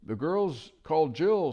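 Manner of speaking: high, loud hoot; loud owl. Acted. Owl shouting into the deaf dwarf's ear. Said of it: "said the owl as loud as it could".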